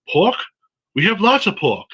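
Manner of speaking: lightly put-on bad Asian accent. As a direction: do a clumsy mock Asian accent. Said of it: "I'm gonna do a bad Asian accent".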